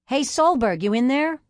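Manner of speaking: loud hail through the door; calling out. Acted. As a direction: call in from outside. Man calling from outside.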